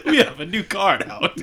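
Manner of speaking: high, smug salesman chuckle and pitch; bank salesman. Retold or imitated. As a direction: laugh like a slick bank rep. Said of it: "You sound like the nigga at Chase".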